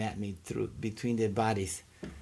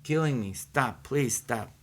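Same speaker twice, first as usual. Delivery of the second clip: pleading stop; slower than usual. Retold or imitated. Begging God to stop the fire, pleading cry. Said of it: "And I say".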